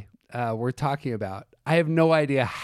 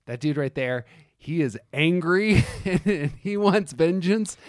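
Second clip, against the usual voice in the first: loud, fierce vengeful rant; vengeful Windu voice; 6 semitones higher, 6 dB louder than usual. Retold or imitated. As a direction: voice an angry Mace Windu, louder. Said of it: "And I'm like".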